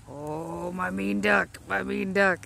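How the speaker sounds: loud mock-scolding coo; playful scolding. Owner teasing her biting duck, loud mock scold.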